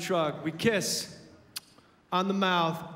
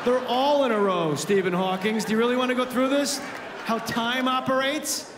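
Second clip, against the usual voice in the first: mock exasperated rant; 5 dB louder than usual. Dad ranting at son.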